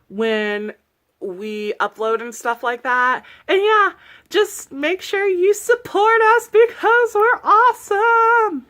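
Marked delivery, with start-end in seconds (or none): 3.5-3.9 high, loud burst; excited. Real, not acted. Hyped video outro. 4.3-8.7 high, breathy playful whisper. Real, not acted. Playful whispered outro plea.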